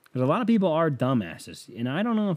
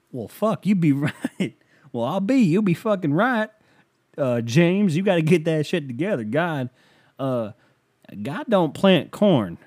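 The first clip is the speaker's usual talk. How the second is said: raised, emphatic mock scolding; lightly voiced host telling someone off; blustering host; 5 semitones higher, 3 dB louder than usual. Money host scolding James, mock bluster.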